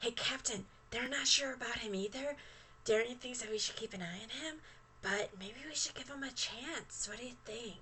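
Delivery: very quiet put-on stage whisper. Voicing a character who thinks she whispers but can be heard: put-on loud whisper. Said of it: "she thinks she's whispering".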